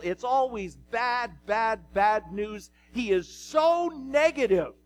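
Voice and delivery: hammed-up exasperation; exasperated complaint. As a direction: pile up the grievances, peaking at the end. Preacher acts Ahab complaining about prophet.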